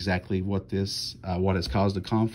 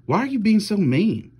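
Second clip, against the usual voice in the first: much higher and louder, stung and upset; hurt sister; 12 semitones higher, 5 dB louder than usual. A narrator's reading. Sister hurt by her brother's meanness, upset high plea. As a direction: cry out, wounded by his words.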